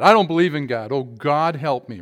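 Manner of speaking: loud panicked plea, then slowing to beg; mock cry to God. Atheist in a foxhole begging God, loud mock panic.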